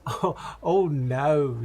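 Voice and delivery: lightly voiced old lady; a hint of an old lady, politely refusing. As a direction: put on a mild old lady accent.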